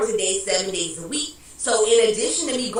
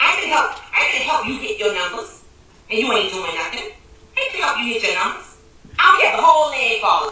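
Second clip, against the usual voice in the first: loud, furious, very angry yelled rant; 5 dB louder than usual. A woman talking about the people on her report, sounding very angry. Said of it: "She sounds very angry".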